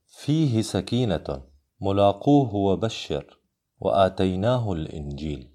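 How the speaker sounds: "فيه", "ملاقوه", "وآتيناه" with short final vowels; slow examples, yet no stretch on the ha of "فيه"; unlengthened pronoun ha. Shown as a demonstration. Teacher contrasts no-madd examples, "فيه" and "ملاقوه" with short endings. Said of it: "هاء الضمير التي لا تمد".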